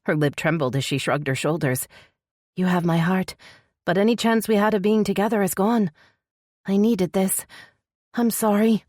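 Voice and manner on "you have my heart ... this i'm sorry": higher female character voice, upset; grieving confession in a raised pitch; sorrowful heroine saying goodbye; shaking voice. A narrator's reading. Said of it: "Her voice shook so badly that she paused".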